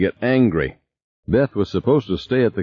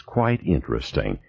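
bitter echo; 5 semitones lower, 5 dB quieter than usual. Acted.

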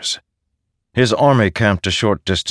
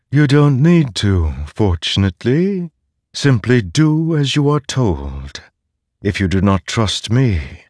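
haughty voice, higher and louder; disembodied voice; 4 semitones higher, 4 dB louder than usual. Acted. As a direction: talk down to him, contemptuous. The voice dismisses Szeth.

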